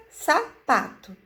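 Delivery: Sapato said slowly, syllable by syllable; slow sounding out. Shown as a demonstration. Teacher to children, sounding out slowly. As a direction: stretch Sapato out. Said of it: "enfatizando cada sílaba".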